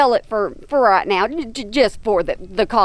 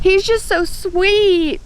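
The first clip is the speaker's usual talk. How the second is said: high, drawn-out cooing; cooing fondly; 6 semitones higher, much slower than usual. Real, not acted. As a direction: gush over a beloved pet. Cooing over her animal.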